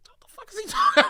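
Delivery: high, loud incredulous outburst; retold disbelief, squeaking upward; mock bafflement. Acted baffled reaction to the cop.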